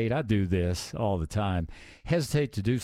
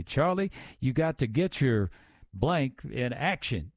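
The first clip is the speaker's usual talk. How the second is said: put-on Georgia accent; 4 semitones higher than usual. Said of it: "She had that Georgia accent".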